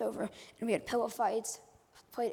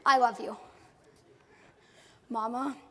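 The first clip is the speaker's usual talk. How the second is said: emotional burst; 6 dB louder than usual. Real, not acted. Emotional thanks to daddy.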